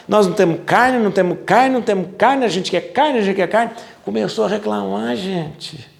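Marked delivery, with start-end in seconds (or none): 0.1-3.7 higher whiny chant of complaint; the Israelites grumbling to Moses, whining; whiny complainers. Acted. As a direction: whine it like spoiled children. Voicing the complaining people.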